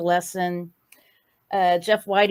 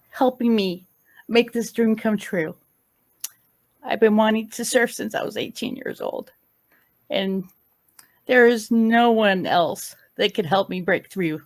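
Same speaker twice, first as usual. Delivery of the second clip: holding back tears as she thanks him; choked-up gratitude; emotional; 3 semitones higher than usual. Real, not acted. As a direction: voice tight with real emotion, slowing. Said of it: "Sorry, I'm a little emotional".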